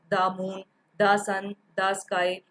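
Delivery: "दा मून", "दा सन", "दा स्काई" with a short da; da before consonant. Shown as a demonstration. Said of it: "इस तरह से इसे दा पढ़ा जाएगा".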